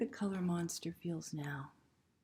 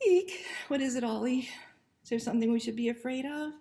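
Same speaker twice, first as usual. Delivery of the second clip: mildly scared; 3 semitones higher, 3 dB louder, faster than usual. Acted. Narrator frightened by puppy.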